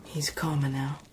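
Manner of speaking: soft sickroom whisper; quiet unvoiced reassurance. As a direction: keep it low so he rests. Whispering by the sickbed.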